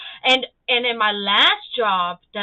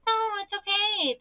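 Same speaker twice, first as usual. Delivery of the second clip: retold reassurance; 11 semitones higher than usual. Bosses reassure her, retold.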